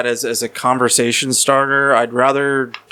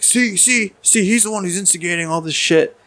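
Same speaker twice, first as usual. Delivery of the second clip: much higher, put-on voice of the accuser; mocking accuser; 7 semitones higher than usual. Stranger telling the bar he's the instigator, high mocking voice. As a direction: play the stranger pointing him out to everyone.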